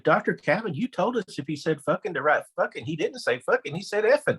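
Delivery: put-on a stately old teacher correcting the principal; light hint of a genteel Southern teacher; prim Southern lady. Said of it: "a Southern gentlewoman all the way".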